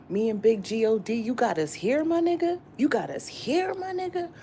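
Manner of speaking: loud, high, excited call upward; hyped to God. Acted. Vlogger hyping with God about where she is, excited.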